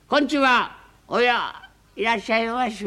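high, bright welcome from the hostess; hostess greeting. Acted. Hostess welcoming the regular customer, high voice. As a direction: greet like an eager teahouse mistress.

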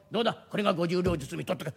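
usual speaking voice

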